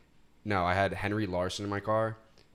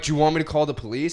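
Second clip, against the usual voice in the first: louder, higher, hurried question; retold flustered question; 5 semitones higher, 6 dB louder, faster than usual. Driver to yelling Russian lady, flustered and loud. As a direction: blurt it out, acting flustered. Acting out a roadside quarrel.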